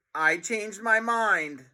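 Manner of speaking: taunting with a grin; smug. Acted. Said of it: "grinning smugly".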